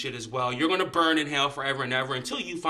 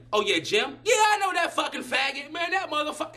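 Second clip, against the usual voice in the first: higher mock shout of a hypocrite; hypocrite's outburst; 10 semitones higher than usual. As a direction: yell it pitched up, mocking the hypocrite. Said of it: "and then two seconds later".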